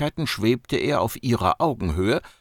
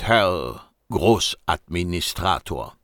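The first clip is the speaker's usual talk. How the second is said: slow, mocking stress on the title; ironic emphasis; 3 semitones lower, slower than usual. Agent mocking his title, slow and ironic. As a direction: drawl the title with irony. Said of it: "mit einer ironischen Betonung".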